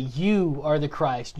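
slow, weighted You, the rest falling away; emphatic. Retold or imitated. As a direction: stress on You, held long. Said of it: "he says emphatically".

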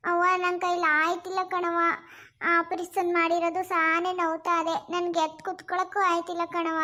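mildly whining post-surgery complaint; weary with pain. Acted. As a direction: plead that you hurt too much to move. New mother in pain after operation. (ನೋವಿನಿಂದ ಬಳಲಿದ ಧ್ವನಿ)

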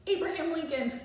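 proud shout of the role he'll play. Acted. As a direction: call it out loud and proud. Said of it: "he shouts".

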